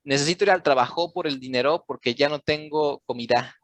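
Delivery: fast Spanish with "trabajo", "dinero", "comida" stressed on the last syllable; misplaced word stress. Shown as a demonstration. Tutor mimics misplaced stress in Spanish, trabajo, dinero, comida stressed on their endings. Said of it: "Si ustedes no ponen atención dónde está la sílaba tónica".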